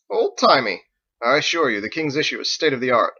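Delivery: a knight stung by the insult; offended. Acted. Harold offended by old-timey.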